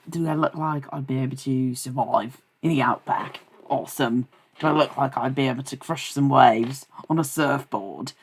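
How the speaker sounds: put-on Australian drifting toward British colonial; playfully faked Australian accent; mock Australian accent. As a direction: ask it in a shaky attempt at an Australian accent. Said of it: "it sounds more like British colonial".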